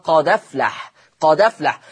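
قد أفلح said as قدَفلح, the hamza's fatha on the dal; recited with naql. Shown as a demonstration. Teacher repeats the naql example for students. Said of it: "فصارت".

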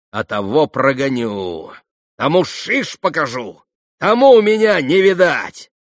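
drawn-out threats building to a high shout; defiant, hysterical climax; hysterical cry. A narrator's reading. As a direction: build to a frenzied yell. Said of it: "Последние слова она истерически прокричала".

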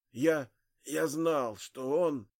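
slow, struggling dying voice; forcing words out. Acted. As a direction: squeeze each word out with effort. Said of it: "Старик силился выдавить из себя слова".

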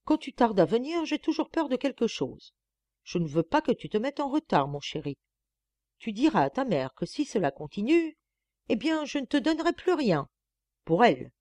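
plaintive, pleading lover's lament; doleful. Acted. Eugénie pleads with the boy, doleful and plaintive. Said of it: "d'un ton dolent".

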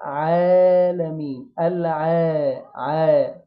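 العالمين with a long, light "aa" after the ayn; slow, held, unthickened ayn in العالمين; two-count madd. Shown as a demonstration. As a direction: stretch the first vowel of العالمين slowly and evenly. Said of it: "هتتمد حركتين".

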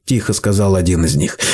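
ordinary delivery

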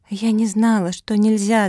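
put-on sobbing girl. A narrator's reading. Mafi sobbing to the elders, high tearful wail. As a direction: wail it like a little one in tears. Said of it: "зарыдала Мафи".

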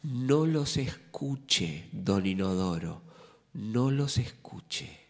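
slow, lightly voiced coaxing plea; drawn-out plea, a hint of a comic sidekick; pleading sidekick. Sidekick coaxing don Inodoro, slow and pleading. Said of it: "Primero le decía".

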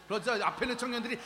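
normal talking voice

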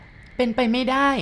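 high, slow, stunned cry; crying out in disbelief. A narrator's reading. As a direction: cry out that it can't be true. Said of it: "นันทวันร้อง". (ร้องอย่างไม่อยากเชื่อ)

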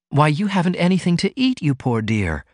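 tender compassion. Acted. Ruth finds Martin's food shelves empty, mildly tender. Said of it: "she said with tender compassion".

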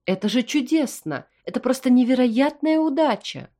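mother overjoyed at her son's news; beaming delight. A narrator's reading. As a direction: burst with happiness. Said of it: "А потом вдруг просияла".

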